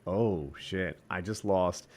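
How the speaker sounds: soft, low, dazed inner voice. Retold or imitated. Fighter's stunned mind realizing the loss, soft and dazed. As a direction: mumble it like a stunned brain. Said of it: "reptile mind is like".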